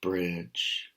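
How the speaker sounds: slow, loud troll voice, dropping at the end; roaring troll. Acted. Troll roars at the third billy goat. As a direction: bellow it from under the bridge. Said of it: "the troll roared".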